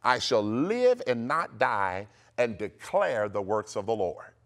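slow, measured faith decree; declaration to repeat. Shown as a demonstration. Preacher giving listeners decree number one, declaring. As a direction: proclaim it firmly, phrase by phrase. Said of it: "Number one, say this".

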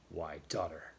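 low, quiet reproving father; mild rebuke. A narrator's reading. Matthew answers his bold daughter, mildly rebuking. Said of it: "he rebuked her".

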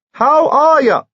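high, loud squeaky repeat. Acted. Lord repeats greeting to dowager, loud and squeaky. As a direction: call it out so the dowager catches it.

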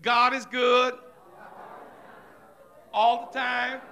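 "God is good all the time" tossed off quiet and automatic; mumbled church slogan without feeling; rote church talk. Shown as a demonstration. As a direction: say it like empty happy talk. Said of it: "you know how we get in church and we say".

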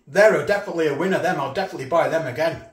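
talking through a mouthful; chewing while talking; mouth full. Real, not acted. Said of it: "Apologising for talking with my mouth full".

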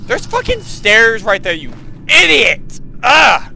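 exasperated self-insult ending in a groan; scolding oneself. Pretend. Player scolding themself over missed stairs, exasperated. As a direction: berate yourself like another person. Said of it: "talking to myself like I'm another person".

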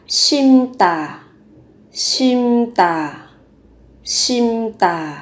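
"심다" said as sim-tta with a tense double t; doubled consonant. Shown as a demonstration. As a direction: double the t in the second syllable of "심다". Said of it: "chú ý gấp đôi phụ âm tờ". ("심다" gấp đôi phụ âm t ở âm tiết hai)

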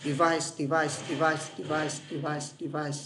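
"Device" repeated, stress on the second syllable; teacher repeating "device" for the class; repeated drill. Shown as a demonstration. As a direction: drill "device" over and over, steady. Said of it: "anh sẽ lặp vài lần".

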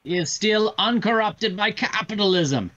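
lightly voiced Tim Curry as a campy villain; Tim Curry impression. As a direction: ham up a cartoon Soviet villain, drawn out. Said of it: "the Tim Curry line from Command and Conquer".

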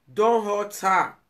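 insistent slow warning. Real, not acted. Pleading warning, repeated louder.

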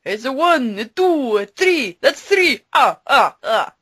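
high, punchy counting with a final shout. Acted. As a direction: count like a gleeful vampire. Sesame Street counting bit.

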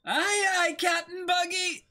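eager crewman. Acted. Crewman answering Captain Buggy, eager high shout. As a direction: snap back like an eager deckhand.

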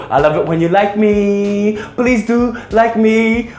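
slow pleading ask for likes; needy and clingy. Acted. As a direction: beg for likes sweetly. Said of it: "I sound so needy for likes".

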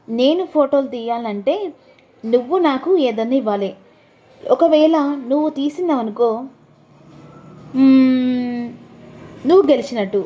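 coy and teasing about the photos; voiced wife. Wife sets a challenge.

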